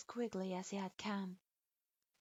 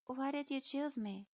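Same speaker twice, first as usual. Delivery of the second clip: put-on higher, timid girl asking carefully; hesitant question; 5 semitones higher than usual. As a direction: ask it hesitantly, unsure of yourself. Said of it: "she began hesitantly".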